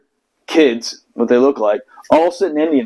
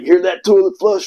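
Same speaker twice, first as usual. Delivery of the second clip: mock smart-ass remark, raised pitch; 4 semitones higher than usual. SEAL leaving with a parting jab, mock smart-ass. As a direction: imitate a smug parting jab. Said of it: "he said something smart when he left".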